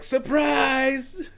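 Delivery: high, loud sing-song surprise; spring it on them; surprise shout. Retold or imitated. Son bursting into the doctor's room, high excited surprise. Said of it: "I'm like".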